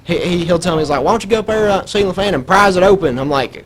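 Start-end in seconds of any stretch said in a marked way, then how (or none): 1.0-3.2 imitated dad. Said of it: "it's like what my dad says".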